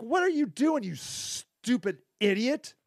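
high, exasperated mock yell at the guy; mock angry yell. Speaker voicing his anger at the troubled guy, high mock yell.

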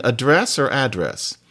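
asking which way to say address; contrasting stress. Retold or imitated. Girlfriend asks which stress is right in address. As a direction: address said with stress first on the second syllable, then on the first. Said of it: "she was saying".

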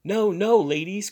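high loud alarmed protest; cried out. Acted. Thurkell to the ladies, alarmed cry. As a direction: try to stop the crowd. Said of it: "cried Thurkell, leaping about".

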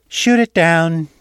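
slow, loud order to fire; firm command. A narrator's reading. Victor ordering the crew to fire, slow loud command. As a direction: bark the order down at the bridge.

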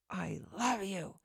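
slow and menacing, a mild hint of threat; mean threatening voice. Shown as a demonstration. Speaking to her dog in a mildly menacing, mean voice. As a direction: lean on it slowly like a threat. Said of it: "in the meanest, most threatening voice".

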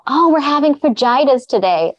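fajitas with a Spanish h, high and playful; mock-proud Spanish fajitas; joking Spanish fajitas. In the cafeteria line, joking with Spanish sound. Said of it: "I thought I was being funny".

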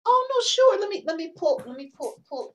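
high, bright flustered burst; flustered excitement. Real, not acted. Guest asked to read her poem, excited and flustered. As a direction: caught off guard and eager.

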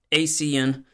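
asean said as AY-see-un; pronunciation shown. Shown as a demonstration. Host showing listeners an acronym, asean pronounced AY-see-un. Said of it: "which I believe is pronounced".

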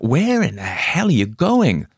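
crying out. Acted. Morgan calling after Spalner as he runs, loud. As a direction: shout after a friend bolting. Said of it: "Morgan cried out".

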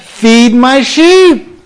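Jesus telling Peter his task, slow; lightly voiced Jesus. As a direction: say it slowly as the Lord's gentle charge. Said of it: "he says".

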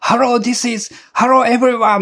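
bright, high, showy English hello; English-style upbeat greeting. Retold or imitated. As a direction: greet like a cheerful native speaker. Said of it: "あのノリで話さないといけない".

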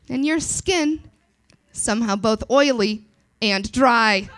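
lightly voiced chipper announcer; a touch of bright radio host; Susan's cheery voice. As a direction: deliver bad life news sweetly. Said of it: "She says, uh".

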